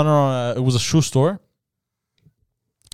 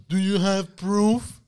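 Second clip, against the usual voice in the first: slow, put-on nagging voice; sing-song mimicry of a busybody; mocking nag; 3 semitones higher, 3 dB quieter, slower than usual. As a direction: stretch it out in mocking imitation. Mocking those who demand proof.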